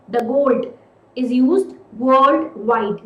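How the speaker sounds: "The gold" pressed, then slow "is used worldwide"; stress on the gold. Shown as a demonstration. Teacher repeating the emphatic example slowly. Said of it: "here I'm saying the gold".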